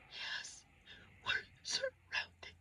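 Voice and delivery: high broken whimpering through tears, hammed-up; mock sobbing. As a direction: sob it out like a terrified wife. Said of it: "I'm crying".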